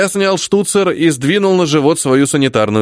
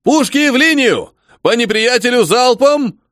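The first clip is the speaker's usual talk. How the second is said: higher barked battery order; shouted command; 9 semitones higher than usual. A narrator's reading. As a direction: bark it across the field. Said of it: "скомандовал".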